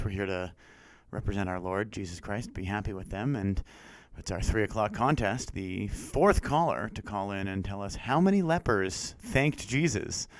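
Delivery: mildly imitated Christian radio host, measured and soft; a hint of earnest Christian DJ. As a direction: lightly parody a radio contest read, drawing out the end. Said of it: "said this in the regular, you know, Christian voice".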